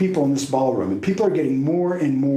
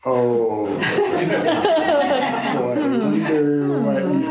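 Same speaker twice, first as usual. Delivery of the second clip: nervous laugh; much slower than usual. Retold or imitated. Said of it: "And I'm like".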